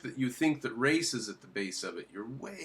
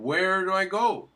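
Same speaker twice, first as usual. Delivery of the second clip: mock plaintive voice; 6 semitones higher, 5 dB louder than usual. Voicing confused leftists.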